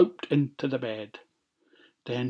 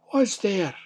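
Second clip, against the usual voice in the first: lightly voiced old woman, higher pitch; old granny; 7 semitones higher than usual. A narrator's reading. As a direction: call out as an old granny, a little high. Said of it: "An old voice called out".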